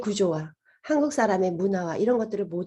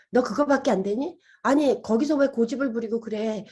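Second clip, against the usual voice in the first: self-blaming voice; 2 semitones higher than usual. Retold or imitated. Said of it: "자책하는 목소리".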